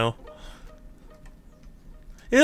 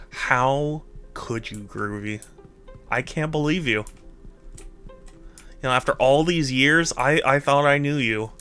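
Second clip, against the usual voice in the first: mock betrayal; 4 dB quieter than usual.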